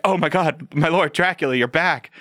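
lightly voiced eager servant; a hint of a fawning servant. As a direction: gush like a relieved old servant. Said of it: "suddenly he's like".

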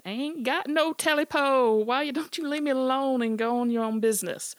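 loud high terrified yell; yelled as loud as he could. Acted. Smitty yells at the creature, loud terrified yell. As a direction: shout with everything you've got. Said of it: "yelled back as loud as he could".

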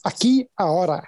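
Aquí ahora as "ah-KEE ah-OH-rah", Spanish vowels. Shown as a demonstration. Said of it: "how do you say right here, right now".

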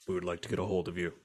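low, hushed, quick official voice; CIA agent on voicemail. Acted. CIA leaves the host a voice message, low hushed agent. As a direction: drop low and quiet like a secret agent. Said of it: "one is from the C I A".

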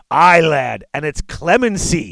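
loud booming dwarf lord. Acted. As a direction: boom it across the hall. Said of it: "came a booming voice filling the hall".

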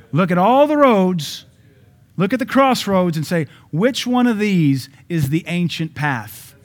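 high, loud and slow proclamation; loud, drawn-out preaching cry; preaching shout. Real, not acted. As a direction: call it out over the congregation. Preaching climax on verse.

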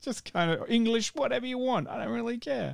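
breezy "I don't care" shrug; careless showrunner. Retold or imitated. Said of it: "Russell T Davies is like".

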